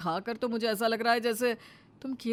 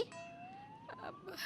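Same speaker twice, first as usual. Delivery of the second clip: a sudden very high, thin wail; high wailing cry; 18 dB quieter than usual. Acted. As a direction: cry out in alarm, high and soft. Mother-in-law panics at threat. (बहुत ऊँची, पतली रोती आवाज़)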